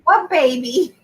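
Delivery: put-on rising, baffled what baby; clueless puzzled rise. Retelling the joke to her friend, baffled rise. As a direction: ask it like you have no idea what baby means. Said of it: "But here's the funny part".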